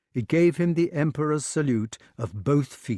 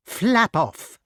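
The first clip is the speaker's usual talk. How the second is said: higher, louder command; shouting witch; 10 semitones higher, 5 dB louder than usual. A narrator's reading. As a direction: shout it to send him away. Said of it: "cried Madam Mim".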